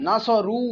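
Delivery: "নাসরু" with a long-held final u; drawn-out vowel. Shown as a demonstration. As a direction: stretch the রু of "নাসরু" to sound the waw. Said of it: "ওই যে টানছেন ওটাই হচ্ছে ওয়াওয়ের উচ্চারণ". ("নাসরু"-র শেষের রু টেনে দীর্ঘ করে পড়া)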